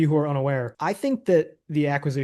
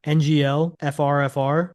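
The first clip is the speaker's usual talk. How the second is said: ironic zoomer; 4 dB louder than usual. Pretend. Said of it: "I'm gonna talk like a Gen Z".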